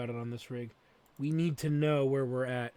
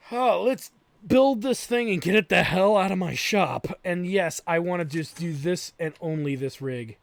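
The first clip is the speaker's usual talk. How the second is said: loud, fed-up rant; frustrated; 7 dB louder than usual. Real, not acted. Streamer fed up with the customer's build, loud frustrated rant. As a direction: vent the frustration loudly. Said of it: "I'm frustrated".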